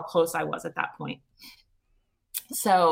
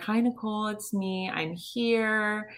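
calm reassurance; 2 semitones higher, slower than usual. Retold or imitated. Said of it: "I felt her very calm presence".

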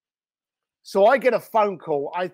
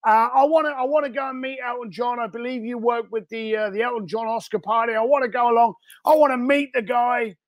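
higher-pitched New York caller; New York guy; 3 semitones higher than usual. Retold or imitated. Caller asks to meet a famous singer, New York guy. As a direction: put on a pushy New York accent. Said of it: "New York guy".

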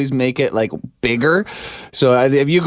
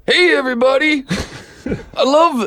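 much higher, laughing through the greeting; Devin Peacock impression; 11 semitones higher than usual. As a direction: put on a higher imitated voice. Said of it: "Can you do a Devin Peacock impression".

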